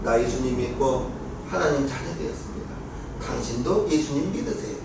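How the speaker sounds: low, soft personal invitation; gentle witnessing. Shown as a demonstration. Believer telling an unbeliever about faith, gentle invitation.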